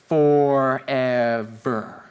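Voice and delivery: very slow, low, stretched-out "forever"; drawn-out emphasis. Real, not acted. Preacher stresses the temple's long building time, drawn-out emphasis. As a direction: drag out every syllable of "forever".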